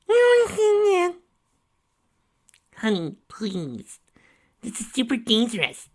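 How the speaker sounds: high, slow pleading mom; pleading mother. Acted. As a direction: beg your daughter to stay safe.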